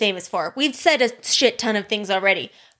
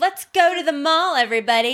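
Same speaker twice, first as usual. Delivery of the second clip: Robin Sparkles impression; 4 semitones higher than usual. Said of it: "home of Robin Scherbatsky".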